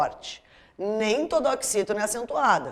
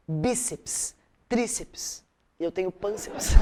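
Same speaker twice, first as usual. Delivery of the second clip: laughing joke; 2 semitones lower, slower than usual. Real, not acted. Joke about own belly.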